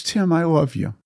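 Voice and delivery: tender father. Retold or imitated. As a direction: retell a dad's heartfelt words to his son. Retold father tells son he loves him.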